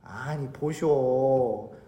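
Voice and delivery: low, slow, drawn-out donkey voice; protesting donkey. Acted. Donkey starts answering back to Balaam, protesting low. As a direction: stretch it out in weary-sounding protest. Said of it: "당나귀가 뭐라 그럽니까?".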